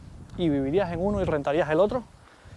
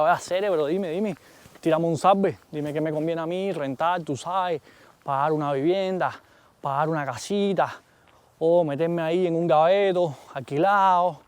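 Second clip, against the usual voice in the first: Cuban slang. Acted. Vlogger asking the AI in hammed-up Cuban slang. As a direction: toss the question out like a Cuban buddy. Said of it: "si yo le hablo así".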